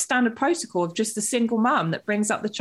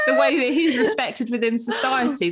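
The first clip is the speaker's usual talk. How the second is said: said again louder to be heard; louder repeat; 4 semitones higher than usual. Real, not acted. Repeating her point louder over her co-host. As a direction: push the line over the crosstalk. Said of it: "repeats it over the overlap".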